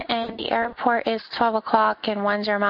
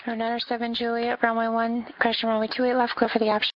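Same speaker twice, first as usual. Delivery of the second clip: air traffic control radio. Acted. Controller reading clearances on frequency.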